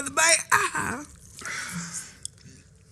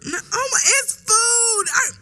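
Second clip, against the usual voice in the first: laughing protest; 9 semitones higher, slower than usual. Real, not acted.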